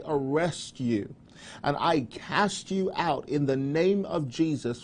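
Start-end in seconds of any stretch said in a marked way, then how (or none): 1.6-4.8 commanding prayer. Shown as a demonstration. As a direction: cast it out with authority. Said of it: "just say".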